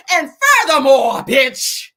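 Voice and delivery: high, very loud comeback; hammed-up yell to resume the tirade; mock indignant shout. Acts out resuming the cussing-out.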